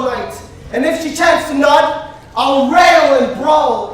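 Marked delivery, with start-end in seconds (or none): 2.4-3.9 angry vow. Acted. Vows to rage at his wife.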